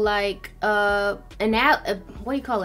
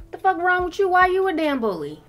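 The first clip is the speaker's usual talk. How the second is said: sharp, higher, louder rant; indignant outburst; 9 semitones higher, 5 dB louder than usual. Real, not acted. To the school bullies, loud indignant outrage. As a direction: call the bullies out, fired up.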